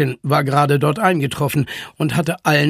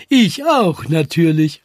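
eager call; 4 dB louder than usual. A narrator's reading. Kaspar volunteers for the rescue, calling out. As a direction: pipe up, then settle. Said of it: "rief Kaspar".

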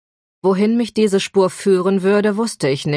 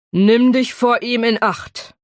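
put-on precise posh British accent, slow and sober; crisp British accent; 5 semitones higher, 3 dB louder, slower than usual. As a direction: warn her in clipped British English. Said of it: "einen gestochenen britischen Akzent".

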